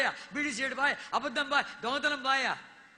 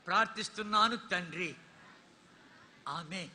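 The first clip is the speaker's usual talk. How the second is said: slow, phrase-by-phrase prayer for the crowd to repeat; slow call-and-response prayer; led prayer; 3 dB louder, slower than usual. Shown as a demonstration. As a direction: pace it so all can follow. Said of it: "అందరూ నా వెంట పలకాలి".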